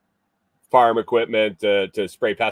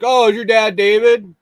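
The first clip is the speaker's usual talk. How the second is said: quoting himself; 12 semitones higher, 8 dB louder than usual. Retold or imitated. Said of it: "I was like".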